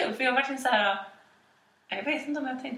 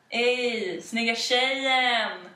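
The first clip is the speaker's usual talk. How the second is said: called-out catcall; much slower than usual. Retold or imitated. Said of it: "bara ropar de så här".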